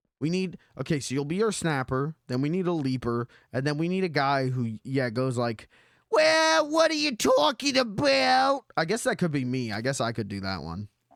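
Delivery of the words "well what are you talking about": fakest-possible New Jersey accent, very high. Listing who the group needs, the speaker voices one guy in the fakest New Jersey accent. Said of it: "with the fakest New Jersey accent".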